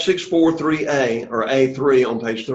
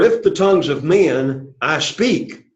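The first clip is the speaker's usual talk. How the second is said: slow, deliberate reading leaning on "if"; weight "if", then measure out the rest; emphasis on if; slower than usual. Shown as a demonstration. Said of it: "you hear the emphasis here".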